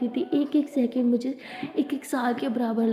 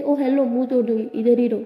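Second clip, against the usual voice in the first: mock threat; 5 dB louder than usual.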